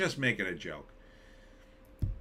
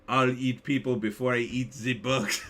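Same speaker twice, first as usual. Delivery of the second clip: reading a chat line in a put-on voice; some character. Shown as a demonstration. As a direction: voice it like a gruff movie character. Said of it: "I read that like, uh, I don't know, some character".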